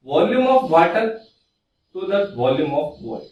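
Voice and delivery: slow, spaced-out words for note-taking; careful, slowed teacher dictation. Shown as a demonstration. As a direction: dictate the formula slowly so students can write it. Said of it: "S equals to".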